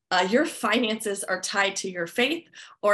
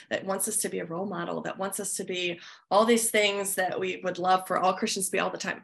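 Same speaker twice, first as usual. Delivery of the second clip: slightly sarcastic. Acted. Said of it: "this is me being slightly sarcastic".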